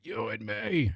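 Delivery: quiet menace. Retold or imitated. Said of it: "He's like".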